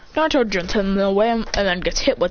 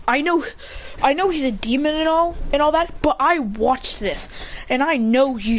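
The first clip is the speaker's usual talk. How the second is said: higher-pitched acted insistence; insistent protest; 5 semitones higher than usual. Villager saying he watched it happen, insistent. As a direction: argue it with raised pitch.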